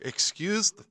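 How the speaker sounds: high, loud shocked outburst; jump-scared, clutching your heart; loud, high-pitched affronted shock; startled guard. Acted. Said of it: "like he's holding his heart".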